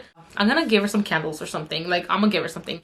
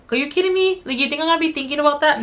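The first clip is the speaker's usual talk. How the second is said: higher-pitched mock disbelief; animated, raised-pitch retort; incredulous retort; 5 semitones higher, faster than usual. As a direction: act out an incredulous comeback. Acting out incredulous retort to neighbor.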